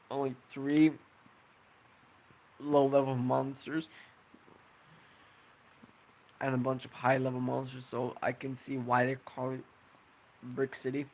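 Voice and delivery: holding back hiccups mid-sentence; talking through hiccups; suppressing hiccups. Real, not acted. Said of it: "Sorry, I'm, I have the hiccups".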